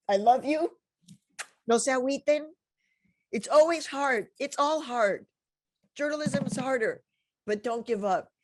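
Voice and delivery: high, loud, emotional farewell; pouring out love to graduates through tears; close to tears. Real, not acted. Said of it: "I'm gonna start crying".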